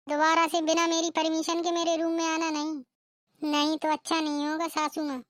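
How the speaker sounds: warning tone, a hint of menace; threatening bride. Bride warns. (सास को धमकाती बहू)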